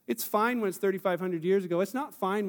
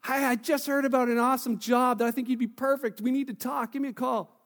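friendly; 3 semitones higher than usual. Shown as a demonstration.

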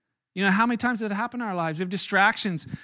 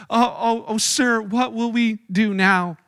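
mild mock cry; slower than usual. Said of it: "he cries to his master".

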